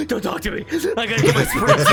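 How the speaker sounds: high, fast, laughing horse voice; Jammin horse voice. Acted. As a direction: squeal it out breathless. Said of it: "he's like".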